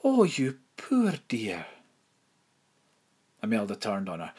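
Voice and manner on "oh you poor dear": slow, pitying, voice catching; voice cracking. A narrator's reading. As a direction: let the voice crack with pity. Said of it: "her voice cracking".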